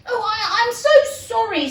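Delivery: high, fast, flustered sorry; flustered apology. Acted. Alice flusters out an apology to the frightened mouse.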